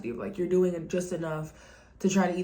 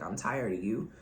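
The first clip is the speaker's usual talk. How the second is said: low mock voice; 8 semitones lower, 3 dB quieter than usual. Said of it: "with A K A".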